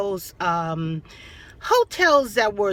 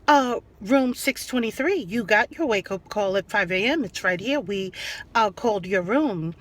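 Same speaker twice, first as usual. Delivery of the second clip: calm, level, softer clerk reply; monotone professional voice; 2 semitones lower, 3 dB quieter than usual. Retold or imitated. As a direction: keep it flat and professional, unbothered. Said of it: "She kept this monotone, professional voice".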